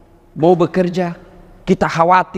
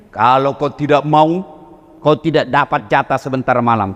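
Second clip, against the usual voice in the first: wife's threat; 6 semitones lower than usual. Pretend. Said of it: "jangan coba bilang sekarang ini begini".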